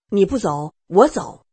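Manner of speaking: mild angry snap, mostly told; angry retort. Retold or imitated. Old tutor storming out of the study, a loud angry snap. Quarrel over reading mistakes.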